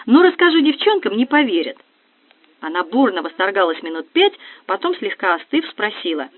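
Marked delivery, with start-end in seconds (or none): 0.1-1.8 squealing excitement. Acted. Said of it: "заверещала Настя".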